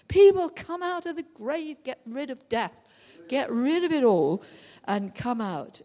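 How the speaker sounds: commanding summons. Acted. Preacher calling people out of the grave, forceful summons. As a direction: summon them forcefully, punching the openings.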